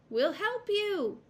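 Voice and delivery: very high, loud slow call; shout. A narrator's reading. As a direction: shout an offer of help. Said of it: "shouted the boys on the bank".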